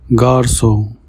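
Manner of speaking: "Garçon" with ç said as S; French "Garçon", soft S before the O; soft S sound. Shown as a demonstration. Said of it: "the C has a soft S sound".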